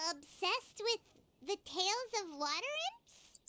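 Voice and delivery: incredulous repeat, rising on water; surprised echo. Acted. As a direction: repeat it back in disbelief. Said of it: "repeats Zuria's words".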